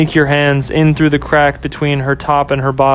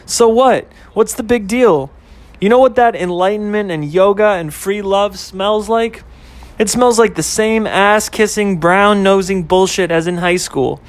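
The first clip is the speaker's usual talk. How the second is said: put-on higher, scornful girlfriend rant; girlfriend Ashley ranting; 5 semitones higher than usual. Girlfriend ranting to boyfriend about enlightenment, high and scornful. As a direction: brush it all off, pitched up and dismissive.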